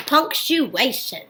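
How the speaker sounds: "Punctuation" drawn out slowly; slow modelling. Shown as a demonstration. Teacher has children repeat a new word, slow modelling. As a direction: say "Punctuation" slowly for learners to copy.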